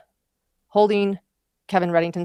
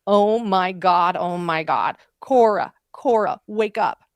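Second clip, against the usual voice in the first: mild, louder mock yell; retold yelling; 4 dB louder, slower than usual. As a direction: re-enact a parent's alarmed calls, only half raised. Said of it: "And then we hear yelling".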